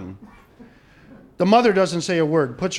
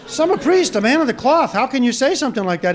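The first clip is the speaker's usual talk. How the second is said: mildly indignant, higher-pitched protest; higher, offended reproach in a joke; scandalized priest; 4 semitones higher than usual. Acted. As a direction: act out a priest taken aback by bad language. Priest scolds boy for swearing.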